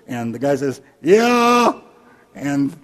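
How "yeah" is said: loud, high shouted answer; calling back. Acted. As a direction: holler back from a distance. Stranger answers from the dark.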